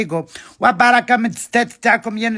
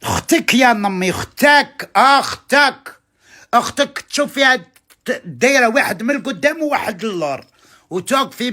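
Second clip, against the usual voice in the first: angry scolding; 4 semitones higher than usual. Real, not acted. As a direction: hammer the word اختك, higher each time. Scolding the follower angrily. (توبيخ غاضب بصوت عالٍ)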